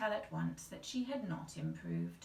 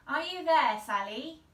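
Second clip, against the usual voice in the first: loud searching call; 7 semitones higher, 11 dB louder than usual. A narrator's reading. Mother searching the tree, loud call. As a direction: call up into the leaves. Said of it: "she called".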